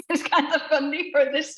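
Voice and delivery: says it through a real chuckle; amused, laughing as she speaks; giggling over the mug. Real, not acted. Chuckling about her cat mug.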